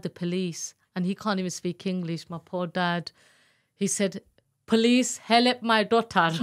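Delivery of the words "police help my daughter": louder, slower plea for help; pleading call. Retold or imitated. Father on the phone begs police to help, urgent. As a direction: cry out to the police for your daughter.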